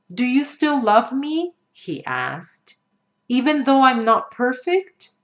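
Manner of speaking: put-on a sad boy's confession; hurt little boy. Boy asks mother for love.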